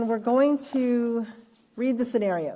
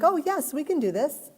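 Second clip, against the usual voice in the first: mock upbeat; 5 semitones higher than usual. Upbeat employee reaction.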